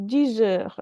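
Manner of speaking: dix heures slowly, the X sounded as Z; liaison demonstration. Shown as a demonstration. Teacher spells it out for the class, dix heures with a slow Z liaison. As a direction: say "dix heures" unhurriedly as "dee-zeur". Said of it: "X becomes the, the sound".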